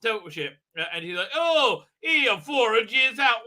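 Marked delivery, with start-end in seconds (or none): 1.3-3.4 high, slow astonished exclamation; hammed-up amazement; mock surprise. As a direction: imitate someone taken aback. Voices a surprised character.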